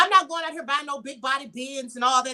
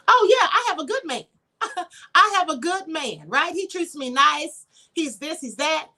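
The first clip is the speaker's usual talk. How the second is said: mock happy bragging. Woman affirming her good man, gushing and laughing. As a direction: gush about your good man.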